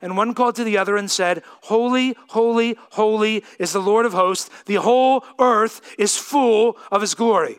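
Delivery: measured public reading of scripture; solemn Bible reading voice. Acted. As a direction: read the passage with weight.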